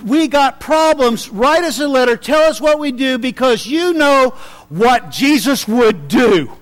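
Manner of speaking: worried congregation begging their teacher; pleading church members. Retold or imitated. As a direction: beg John for a letter. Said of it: "they're gonna go contacting John".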